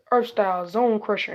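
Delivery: loud battle cry; shouted attack name. Acted. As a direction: call out the move's name. Calling out a jutsu attack.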